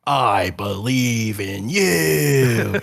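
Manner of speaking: slow, earnest mock encouragement; lightly dramatic. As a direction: draw it out like a sincere pep talk. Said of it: "if I say your name dramatic".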